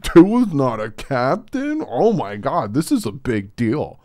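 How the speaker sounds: exaggerated fake panic; mock outrage. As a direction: imitate shocked fans overreacting. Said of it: "they were like".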